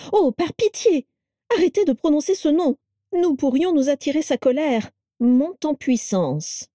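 high, urgent begging; alarmed plea. A narrator's reading. Carla begs Vera not to name Voldemort, alarmed. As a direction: cut in high, as if the name were dangerous.

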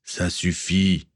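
slow, stern growl of a pirate captain; captain silences his nephew with a growl. Acted. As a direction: cut him off, very slowly. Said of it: "gronda le capitaine".

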